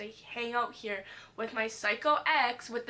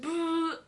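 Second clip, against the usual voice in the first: higher-pitched mimicked buzz; imitated taser zap; 5 semitones higher than usual. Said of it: "he gives me a taste".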